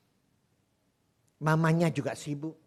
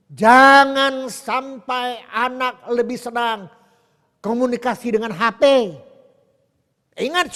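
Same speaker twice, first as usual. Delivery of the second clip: loud, pounding sermon exhortation, higher; preaching at full force; 10 semitones higher, 12 dB louder than usual. Acted. Preacher urging parents to put down phones, loud fervent preaching. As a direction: hammer each warning home to the crowd.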